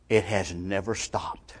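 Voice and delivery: low, slow, soft statement; quiet, weighty and unhurried; hushed solemnity. Real, not acted. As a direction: drop low and slow for a grave answer. Preacher's solemn answer, then repeated.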